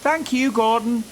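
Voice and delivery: high and loud thanks; whistling thanks. A narrator's reading. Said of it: "whistled James".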